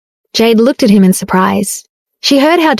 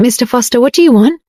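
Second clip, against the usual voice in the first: innocent, higher questioning voice; naive; 3 semitones higher than usual. Acted. Jade asking her husband what he wants, naive and innocent. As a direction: ask it wide-eyed, not getting the hint. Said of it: "She blinked and naively asked".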